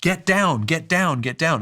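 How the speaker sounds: retold screaming warning. Senior fireman warning his team of fire, retold screaming. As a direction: call out a repeated order, re-enacting a scream. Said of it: "started screaming".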